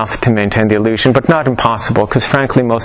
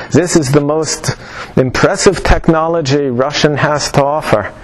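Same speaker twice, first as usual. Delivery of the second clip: mock Russian accent; 2 semitones higher than usual. Teacher imitating the Russian woman demoing her machine, faint mock Russian accent. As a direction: imitate a Russian saleswoman's accent, half German. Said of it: "I can't really do a Russian accent, so it comes out sounding German".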